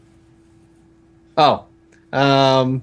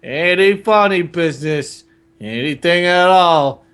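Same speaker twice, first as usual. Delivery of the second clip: Uncle Vernon. Acted. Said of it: "Uncle Vernon had taken Harry aside".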